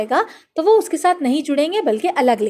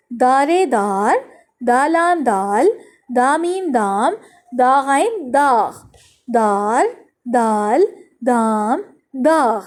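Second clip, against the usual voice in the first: put-on slow, stretched-out syllables for young learners; teacher's measured read-along chant; reading drill; much slower than usual. Shown as a demonstration. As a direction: sound out each letter, then draw out the blended word. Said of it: "الفاظ کی reading کروا دیتی ہوں".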